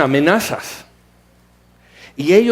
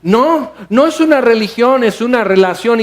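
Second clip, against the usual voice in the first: mocking excuse; 4 semitones higher than usual. Preacher mocks a believer dodging the accuser, singsong. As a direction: parody the evasive believer's slogan. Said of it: "todos tus desvaríos y excusas".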